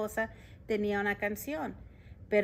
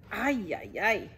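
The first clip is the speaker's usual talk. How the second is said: loud, higher grumpy complaint; grumpy mayor complaining loudly; 4 semitones higher, 5 dB louder, much slower than usual. Acted. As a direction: snap it out like a cranky mayor. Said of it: "se quejó don Pepe".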